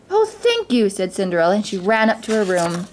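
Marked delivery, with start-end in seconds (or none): 0.1-0.9 high, grateful outburst; delighted thanks. A narrator's reading. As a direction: gush with sudden joy. Cinderella joyfully thanks her stepmother.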